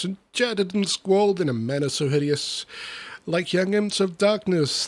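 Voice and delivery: lively, rhythmic storybook reading; verse recitation. Acted. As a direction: read the rhyming tale with bounce. Reads comic verse aloud.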